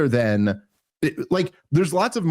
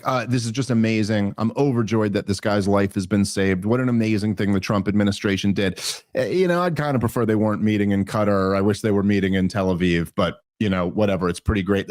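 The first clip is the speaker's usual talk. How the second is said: low-key, lower-pitched imitation of a pleased commentator; mild overjoyed approval; 5 semitones lower than usual. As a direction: calmly voice someone content with the news. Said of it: "if that were the tone".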